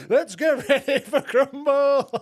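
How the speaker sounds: big booming ring announcer call, high and loud; hammed-up ring announcer at Christmas. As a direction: announce it like a fight intro. Mocking ring announcer at home.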